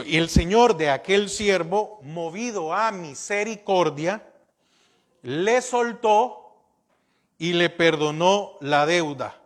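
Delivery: "le soltó" drawn out and lifted; slow repeated reading. Shown as a demonstration. Preacher rereading the verse to the congregation, slowly.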